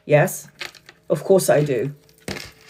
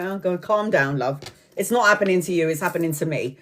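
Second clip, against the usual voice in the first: softer, soothing friend's voice; calm reassurance; 5 dB quieter than usual. Retold or imitated. Friend telling her to calm down, calmly reassuring. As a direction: gently talk them down, getting quieter. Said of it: "she's all there really calm".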